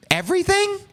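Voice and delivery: squeaky high everything, can't believe it; incredulous yelp; disbelief. Real, not acted. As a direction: shoot the word up high in shock. Disbelief at all counts guilty.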